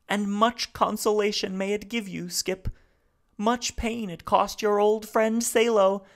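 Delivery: speaking haltingly. Acted. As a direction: Salo piecing his words together. Salo to memory of Rumford.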